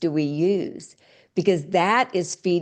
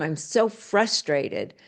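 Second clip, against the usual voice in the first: slow frustrated sigh; 2 semitones higher, slower than usual. Shown as a demonstration. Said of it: "the tonality even sounds different".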